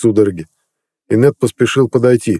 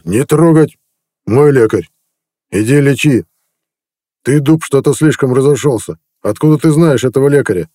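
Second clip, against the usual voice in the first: growled order; 5 semitones higher than usual. A narrator's reading. Chieftain halts a warrior drawing his axe, roaring. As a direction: stop the man cold with a roar. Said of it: "остановлен рыком лапы".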